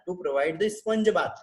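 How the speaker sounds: slowed, spaced words; slow dictation. Shown as a demonstration. Teacher repeats sponge bath slowly for notes. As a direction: repeat it slowly so they can write. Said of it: "teacher dictating care plan".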